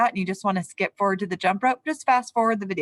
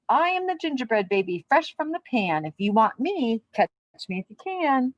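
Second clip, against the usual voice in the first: higher, sing-song taunting little voice; cheeky gingerbread baby; 4 semitones higher than usual. Acted. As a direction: tease them like a cocky cookie. Gingerbread baby chants rhyme.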